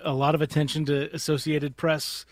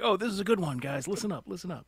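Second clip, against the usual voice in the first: hyped-up pitch; 5 semitones higher, 4 dB quieter than usual. Retold or imitated. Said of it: "deadpan way".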